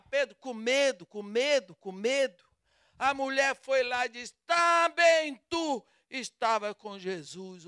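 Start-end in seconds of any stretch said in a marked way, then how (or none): 4.5-7.7 loud, slow accusation; accusing shout. Acted. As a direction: call him out before everyone. Maid accuses Peter before all. (a criada acusando Pedro em voz alta)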